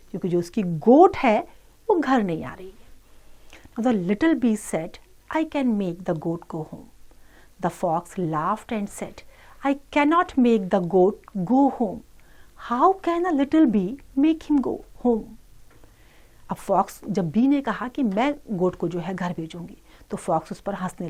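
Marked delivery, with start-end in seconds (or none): 3.8-15.2 slow, measured English read-aloud; children's story reading. Acted. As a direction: read slowly to children, word by word. Reads English story slowly to children. (बच्चों को धीरे-धीरे कहानी पढ़कर सुनाना)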